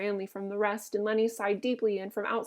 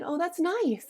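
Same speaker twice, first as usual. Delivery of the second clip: pleased; 8 semitones higher, slower than usual. A narrator's reading. Lennie enjoys stroking her hair.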